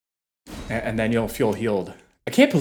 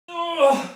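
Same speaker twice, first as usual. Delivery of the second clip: strained groan. Real, not acted. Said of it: "Oh, my legs".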